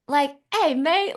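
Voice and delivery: a light, high imitation Australian greeting; Australian accent. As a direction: put on a touch of Aussie accent. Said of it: "Australian accent".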